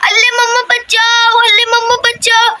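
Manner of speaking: put-on singsong babyish wail for mummy; a puppy's lisping call for help; sung baby cry for mummy; baby-talk cry for help.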